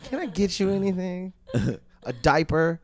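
solicitous. Pretend. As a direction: fuss over her like a nurse. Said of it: "treat her like a senile animal".

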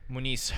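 Muniz ending on a plain S; low, soft Latin American "Muniz"; South American accent. Shown as a demonstration. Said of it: "if you're from South America".

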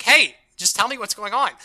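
mildly exasperated retold demand; annoyed. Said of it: "annoyed enough to be like".

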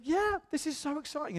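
high-pitched mock weepy excitement; imitated crying. Crying pastor excited by the story, imitated high and tearful. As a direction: squeak it out as if tearful and thrilled. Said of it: "he starts to cry".

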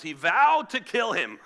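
loud, slow, heavy declaration; dramatic proclamation. Acted. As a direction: proclaim a deadly vow with mock grandeur. Mock-dramatic typical biblical response.

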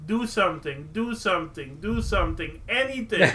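robot voice. Retold or imitated. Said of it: "a computer voice says".

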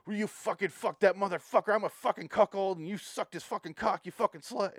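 high, loud hammed-up cursing tirade; mock movie rant. Mocking the movie's dialogue, a loud hammed-up rant. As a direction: parody the movie's over-the-top swearing. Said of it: "It's like".

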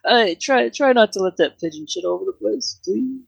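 high-pitched Canadian pub keeper; put-on Canadian accent, pleading with a guest; mock Canadian accent. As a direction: ask it as a high-voiced Canadian host. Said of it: "And he had an accent".

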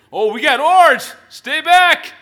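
shouting a warning, high and loud; warning yell. Pretend. Disciple in the boat warns the ghostly figure, yelling. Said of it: "he warns the figure".

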